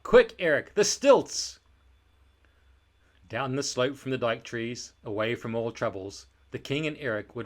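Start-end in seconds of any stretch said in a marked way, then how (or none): 0.0-1.6 loud, high, gleeful shouting; big excited shout, pitched up. A narrator's reading. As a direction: yell for the stilts like a boy at play. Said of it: "he'd shout".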